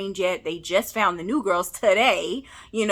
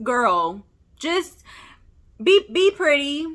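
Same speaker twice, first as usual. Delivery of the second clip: exasperated plea; 4 semitones higher, slower than usual. Pretend. Vlogger begging the actress to drop the accent, exasperated. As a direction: beg her to just be pretty. Pleading with Haley to just act.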